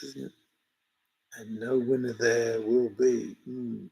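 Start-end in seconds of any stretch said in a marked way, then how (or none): 1.4-3.9 Yoda-style word order. Retold or imitated. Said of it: "Is that how you would say it?".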